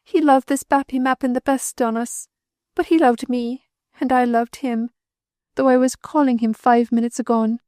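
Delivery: high, grief-stricken lament; grieving. A narrator's reading. Widow mourning her drowned husband, grieving. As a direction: mourn him aloud.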